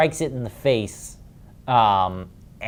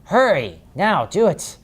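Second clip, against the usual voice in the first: raised, higher urgent order to the butler; urgent call; 8 semitones higher, 5 dB louder, slower than usual. Acted. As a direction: call out to the servant to hurry. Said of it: "and he says".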